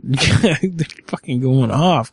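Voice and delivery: slow, laughing through the words. Real, not acted. Host laughs at the agents bickering, slow and amused. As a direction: chuckle it out, amused.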